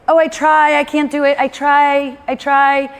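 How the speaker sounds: lightly mocking complainer; mock whiny excuse. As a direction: mimic someone sighing that they tried. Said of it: "I said it".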